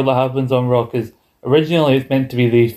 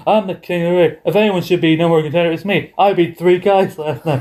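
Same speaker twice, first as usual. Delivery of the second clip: annoyed Kurt Angle; 4 semitones higher than usual. Retold or imitated. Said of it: "he's annoyed about his coronation".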